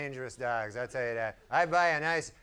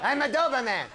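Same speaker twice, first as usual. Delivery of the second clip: lightly voiced high sad has-been Doberman; forlorn has-been dog; 9 semitones higher, faster than usual. Forgotten Doberman laments his past, lightly voiced high has-been. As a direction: sigh about lost glory from a park bench. Washed-up Doberman on park bench.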